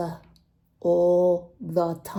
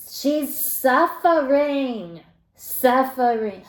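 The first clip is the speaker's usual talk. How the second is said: mock pity; 3 semitones higher, 6 dB louder, slower than usual. Mock pity over caller's pain.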